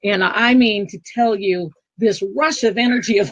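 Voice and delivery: ordinary talk, nothing marked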